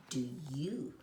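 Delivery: hushed storyteller whisper. A narrator's reading. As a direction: whisper it like a secret. Storyteller asks children softly.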